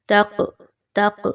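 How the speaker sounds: تق with a bounced ق; qalqala on ق. Shown as a demonstration. Teacher isolates the qalqala. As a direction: jolt the ق in تق. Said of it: "یہ قاف جو تھوڑی سی ہلائی".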